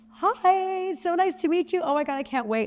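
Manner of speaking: mock over-eager welcome; imitating her own gushing self; bubbly greeting.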